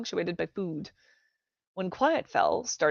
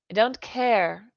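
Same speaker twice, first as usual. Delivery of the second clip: defiant; 4 semitones higher, 5 dB louder, slower than usual. Acted.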